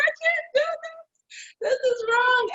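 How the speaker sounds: high, tearful breaking cry; reliving the moment of breaking down in tears; retold crying. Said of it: "And I started crying".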